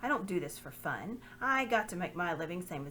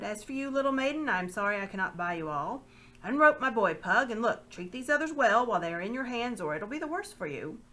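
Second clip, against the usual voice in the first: louder, authoritative orders; commanding lord; 3 semitones higher, 6 dB louder than usual. Acted. Lord ordering Pug to treat the others well, commanding. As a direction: command the slaver with a threat.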